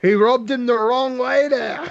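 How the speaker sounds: put-on hammy English commentator accent. Host imitating Bisping's fight commentary, English accent. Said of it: "Bisping would do that thing anyway".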